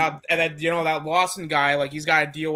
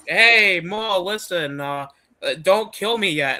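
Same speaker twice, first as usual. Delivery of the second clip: higher-pitched, lightly voiced nervous plea; hammed-up appeal with a loud opening; mock pleading; 4 semitones higher, 4 dB louder than usual. Recap voicing captive pleading with Maul.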